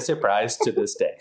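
monotone robot voice; flat robotic delivery. Pretend. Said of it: "this robot voice is like".

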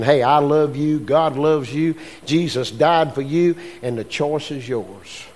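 reach out to them tenderly; tender invitation. Pretend. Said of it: "reaches out in love and tenderness".

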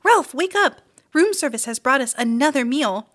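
high and loud, calling him awake; excited mother calling her son; urgent wake-up call. A narrator's reading. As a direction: shake him awake with your voice. Mother waking Ralph.

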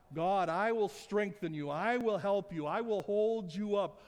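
ringing scripture reading, loud and steady; scripture read aloud. Real, not acted. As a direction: proclaim the promises to the congregation. Reads scripture with force.

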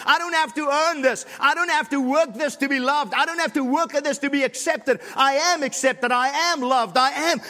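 fervent sermon delivery, building in force; preaching. Acted. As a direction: preach it to the room, rising toward the climax. Impassioned preaching to congregation.

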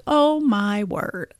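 slow, drawn-out alarmed exclamation; alarmed babysitter. Retold or imitated. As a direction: react slowly like someone seeing a bad injury. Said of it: "and was like".

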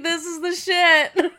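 high, slow, laughing mock hag voice; hammed-up high hag voice, laughing. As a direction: ham up the hag, cackling through it.

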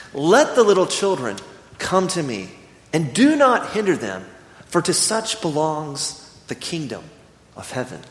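slowing and fading into a hush at the end; solemn scripture reading. Acted. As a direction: read it like holy words, letting it settle. Reads Jesus' words from scripture.

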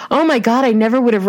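high, loud, breathless fan excitement; starstruck gush. Retold or imitated. Fan gushing to the actress at the poster booth, excited and high.

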